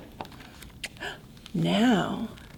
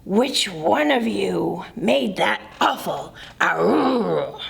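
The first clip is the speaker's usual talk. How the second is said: grumpy bear; 5 semitones lower than usual. Acted. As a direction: lower grumbling bear voice. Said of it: "disturbed from his slumber".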